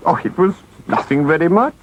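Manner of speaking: high, sheepish, evasive reply; embarrassed Toad. Acted. Toad dodging the question about prison, sheepish. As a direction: brush it off sheepishly, voice lifting at the end. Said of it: "said poor Toad, colouring deeply".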